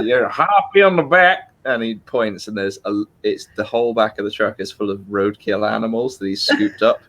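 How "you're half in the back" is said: higher, louder Southern redneck twang; Cletus the redneck. Retold or imitated. Cletus the redneck offering Lisa a lift, louder Southern twang. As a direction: bark it out like a hillbilly trucker. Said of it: "he's like".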